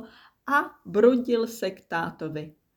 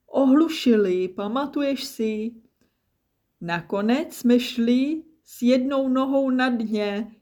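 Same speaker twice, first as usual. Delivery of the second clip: high, loud, hearty reminiscing; jovial, projected voice; booming old friend; 5 semitones higher, 4 dB louder than usual. A narrator's reading. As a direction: regale an old pal with gusto. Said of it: "zaburácel".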